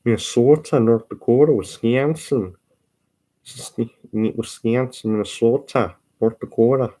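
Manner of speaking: thick North Central accent with long O's. Shown as a demonstration. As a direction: lean into an Upper Midwest accent. Showing off her regional accent.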